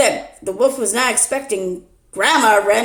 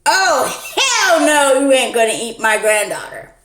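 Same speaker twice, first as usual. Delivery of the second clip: sassy grandma; 5 semitones higher, 5 dB louder than usual. Acted. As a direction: tell the wolf off as a feisty granny. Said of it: "to the wolf she said".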